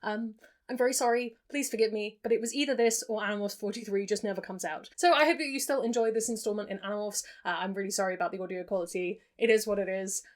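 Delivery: echoey attic room sound; recorded in an echoey attic. Real, not acted. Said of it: "very echoey audio that comes as a result of filming in an attic".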